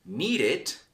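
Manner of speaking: "need it" said as two syllables with a full "it". Shown as a demonstration. Teacher giving example verbs, clear syllables. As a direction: pronounce the ending as a separate "it". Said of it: "we have verbs like".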